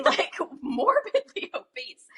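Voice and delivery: unvoiced half-laughing whisper; whispered verdict. Anna's blunt verdict at dinner, whispered. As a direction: drop to a scandalised whisper.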